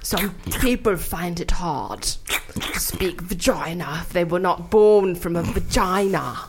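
put-on deep talking body part; talking vagina voice. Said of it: "your vagina talk sounded like Davy Jones".

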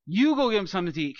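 snarky brush-off from Jesus. Shown as a demonstration. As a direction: toss it off with a sneer. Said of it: "I said it kind of snarky".

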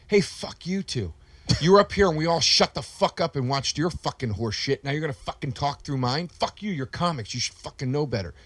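heated, swearing tirade; angry rant. Retold or imitated. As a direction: chew them out. Drunk comic rants at comedians.

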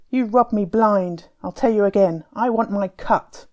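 angry accusation. Acted. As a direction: demand what he's owed, grimly. Tufan accuses Timur, quarrel.

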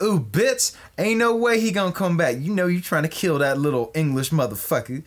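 high, sassy put-on diva voice; Wesley Snipes. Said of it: "He's like".

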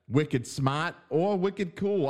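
slow mock-Boston twang; Boston accent. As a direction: lightly mimic a Boston accent. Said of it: "use that stupid accent".

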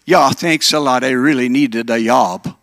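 put-on light Minnesota Scandinavian accent for Ole; Ole's Scandinavian accent. Ole answers the factory interviewer, in a light Scandinavian accent. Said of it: "They talk like this".

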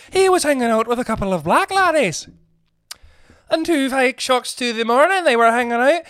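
a hint of a disapproving old white gentleman; mock old man grumbling. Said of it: "Old white gentleman".

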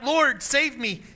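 high, slow cry for help; desperate plea. Acted. Sinking Peter cries to Jesus, high and slow pleading. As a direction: plead as you sink. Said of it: "he cried out".

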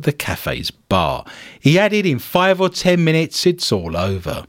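deadpan news story delivery; news read. Acted. Host reading a bizarre cafe story to co-hosts, news read. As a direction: read it out like a bulletin.

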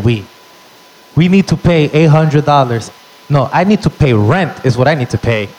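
mom refusing to pay; mock angry mom; mom snapping. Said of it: "That's what my mom said".

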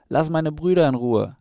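high, loud little-owl outburst; acted furious cry defending the brothers; angry shout. A narrator's reading. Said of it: "schrie sie wütend".

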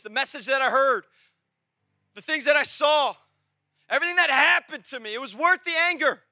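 put-on insistent, rising retelling of old anger; heated preaching. Preacher reliving his distrust in the back row, heated preaching. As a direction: build the grievance point by point.

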